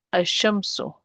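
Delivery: Ash-shamsu with doubled SH, no L; lam dropped. Shown as a demonstration. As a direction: glide from A straight into SH in Ash-shamsu. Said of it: "not pronouncing the lam".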